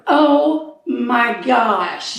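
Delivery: long, drawn-out shock; slow, appalled exclamation; shocked reaction. Real, not acted. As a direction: stretch each word out in disbelief. Shocked listener reacts to story.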